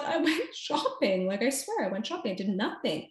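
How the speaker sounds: nervous giggle while pleading innocence; nervous laughing plea. Retold or imitated. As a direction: insist you just went shopping, half laughing. Pleading her innocence to interrogators.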